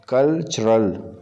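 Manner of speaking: कल्चरल drawn out slowly and clearly, with a falling finish; slow model word. Shown as a demonstration. Teacher modelling कल्चरल slowly for the class. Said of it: "तो ये है कल्चरल".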